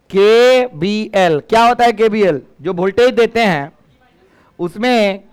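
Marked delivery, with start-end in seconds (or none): 0.1-1.4 drawn-out emphasis. Shown as a demonstration. Teacher stresses law name.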